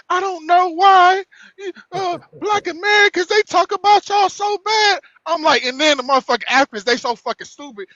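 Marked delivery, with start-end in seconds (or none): 0.1-5.0 high, slow mock white-lady voice; imitated white woman. Man retelling what a white lady said on another live, high mocking imitation. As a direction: mimic her, pitched well up and drawn out. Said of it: "White lady came in. She was like".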